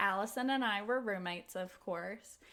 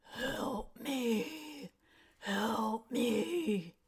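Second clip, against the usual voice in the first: gross, hellish, gravelly man's rasp. Retelling a voice heard from between the beds: imitating a gravelly man's voice. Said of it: "a gravelly man's voice that says".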